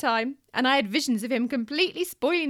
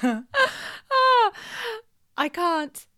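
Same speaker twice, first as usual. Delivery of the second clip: put-on child's whine; 9 semitones higher, 6 dB louder, much slower than usual. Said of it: "he replied".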